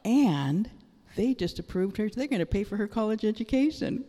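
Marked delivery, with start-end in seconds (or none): 2.1-4.0 choked up with joy; tearful joy. Real, not acted. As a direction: voice cracking with happy tears as she says "pay for her college". Joyful testimony, voice breaking.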